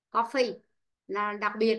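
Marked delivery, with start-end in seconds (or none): 0.1-0.6 "Coffee" stressed at the start, then falling; stress on first syllable. Shown as a demonstration. Teacher shows the exception to the rule, first-syllable stress on "Coffee". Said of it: "trọng ấm sẽ rơi âm một".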